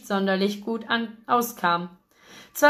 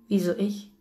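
startled croak, lightly done. A narrator's reading. Shocked man to friend about wedding venue, croaked. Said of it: "krächzte ich".

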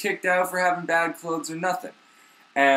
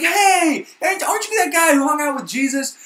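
much higher woman's voice; sweetly nosy accusation; mock woman's voice; 12 semitones higher, 5 dB louder than usual. A second woman quizzing Peter, high and nosy.

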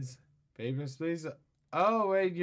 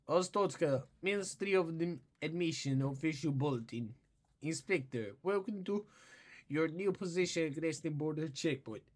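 put-on Russian accent; 4 dB quieter than usual. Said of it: "with this damn accent".

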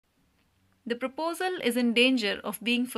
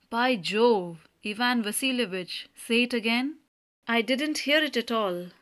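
joyful. Acted.

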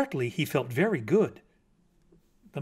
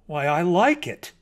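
louder, approving critic; gracious praise; 3 semitones higher, 5 dB louder than usual. Acted. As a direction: give generous approval. Mockingbird politely praises bat's poem.

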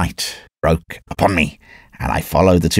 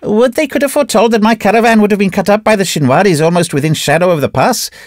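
grumbling trader; 11 semitones higher, 3 dB louder, faster than usual. Acted. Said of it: "grunted the Yusufzai agent".

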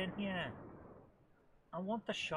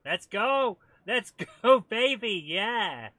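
loud, high celebration; elated whooping; 5 semitones higher, 13 dB louder, slower than usual. Real, not acted. Player celebrating a speedboat find, elated shouting. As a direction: cheer yourself on at full volume.

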